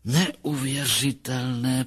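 slow, pondering delivery; thoughtful. Acted. Psychologist marvels at his patient's case, slow and thoughtful. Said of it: "pravil zamyšleně".

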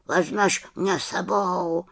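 a gently begging bird; lightly voiced raven's plea; pleading raven. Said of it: "prosil Abraxas".

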